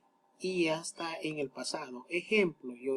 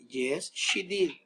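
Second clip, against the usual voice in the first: slow model answer; much slower than usual. Shown as a demonstration. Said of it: "La respuesta".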